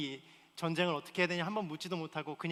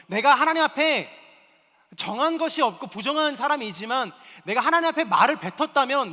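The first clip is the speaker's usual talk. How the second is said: louder, higher sermon drive; impassioned preaching; 8 semitones higher, 10 dB louder than usual. Acted. Pastor exhorting listeners to keep vows, loud preaching. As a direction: press the point hard from the pulpit.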